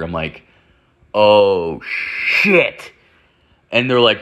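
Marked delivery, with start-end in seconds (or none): 1.1-2.9 drawn-out, hushed-hiss mock shock; dawning realisation. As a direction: let the realisation land in two slow beats. Realises he is the dealer.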